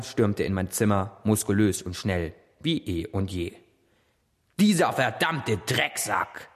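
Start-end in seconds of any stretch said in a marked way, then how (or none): 4.6-6.5 aufgebracht rufen. Acted. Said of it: "rief er aufgebracht".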